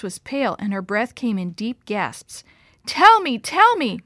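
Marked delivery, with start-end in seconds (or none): 2.9-4.0 high, loud desperate shout; urgent shout. A narrator's reading. Dad begging his stricken wife, urgent shout. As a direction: demand an answer in panic. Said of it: "my father shouted".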